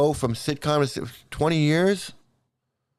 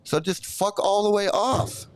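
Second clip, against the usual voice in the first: higher-pitched, indignant outburst; real irritation, pitched up without shouting; angry rant; 4 semitones higher than usual. Real, not acted. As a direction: tell the viewer off in exasperation. Irritated rant at a viewer's comment.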